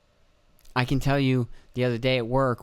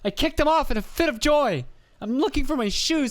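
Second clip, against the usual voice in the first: Dane Cook bit. Retold or imitated. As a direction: ham it up like a stand-up routine. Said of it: "Sounds like a Dane Cook joke".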